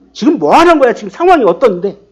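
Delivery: lightly acted telling-off, easing as it goes; mock scolding. Wife confronting her dozing husband, mildly indignant.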